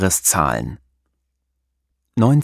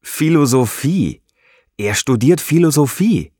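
calling out laughing; 5 semitones higher than usual. A narrator's reading. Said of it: "Marco lacht und ruft".

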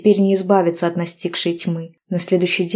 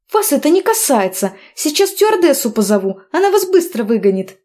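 higher, louder furious outburst; flaring anger; 8 semitones higher, 4 dB louder than usual. A narrator's reading. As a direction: blow up at him. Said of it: "вспыхнула я от настигшей злобы".

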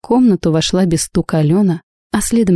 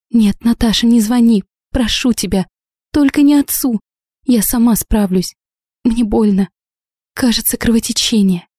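ordinary delivery

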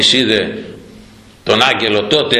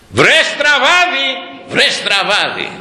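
donkey's rebuke; 10 semitones higher, slower than usual. Acted. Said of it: "Και του λέει".

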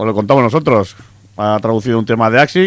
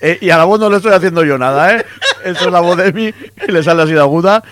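raised pitch with laughter in it; amused, laughing; 5 semitones higher than usual. Real, not acted. Host swears he is not altering Emi's voice, laughing. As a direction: explain it while chuckling.

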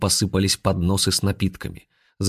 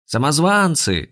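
higher, slow cry of alarm; yell; 8 semitones higher, 3 dB louder, slower than usual. Acted. Follower spots the impostors, alarmed yell. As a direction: cry out at the intruders. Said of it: "завопил кто-то из последователей".

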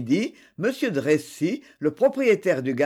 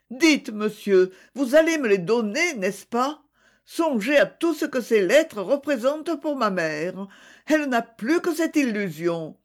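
higher, urgent pleading to the judge; young woman begging for her mother's letters, voice about to crack; pleading, voice near breaking; 5 semitones higher than usual. Acted. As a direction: beg for the letters, voice on the edge of breaking. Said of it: "La voix d'Édith se brisa".

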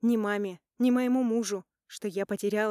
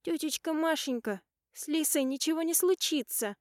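put-on a small girl comforting her aunt through tears; tearful little girl; 8 semitones higher than usual. Little niece comforting crying aunt Masha, high tearful child voice.

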